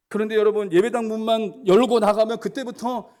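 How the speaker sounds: climbing sermon cadence; fervent preaching. Acted. Preaching push.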